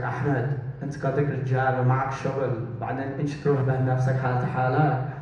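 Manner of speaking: fuming mom. Retold or imitated. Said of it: "she's like".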